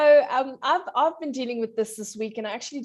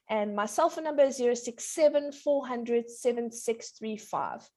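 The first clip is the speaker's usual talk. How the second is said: phone number in a quick run; too fast. Real, not acted. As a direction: rattle off the digits. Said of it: "You said it all too fast".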